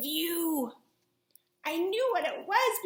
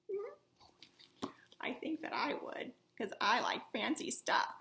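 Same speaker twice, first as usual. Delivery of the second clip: whisper; 7 dB quieter than usual. Acted. Host asks kids, whispers answer.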